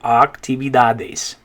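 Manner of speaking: actividades slowly with open ah; slow Spanish model word. Shown as a demonstration. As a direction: stretch actividades for learners. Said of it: "You can practice the vowels".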